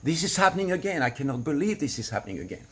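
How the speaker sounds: venting exasperation alone as a release demo; exasperated outburst. Shown as a demonstration. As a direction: blurt it out, fed up. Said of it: "right now, I'm not in a mature place".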